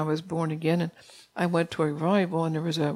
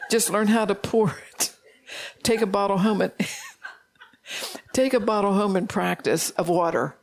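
laughing; 3 semitones higher than usual. Real, not acted. Laughing while giving oil advice.

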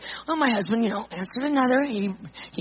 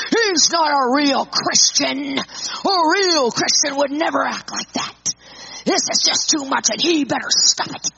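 a hammed-up rant about a false Christian; mock ranting. Husband ranting to his wife about the emailer. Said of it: "start ranting and raving".

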